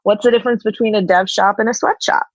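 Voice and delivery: put-on quick breezy Valley girl voice. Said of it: "sounding like a Valley girl in that voice".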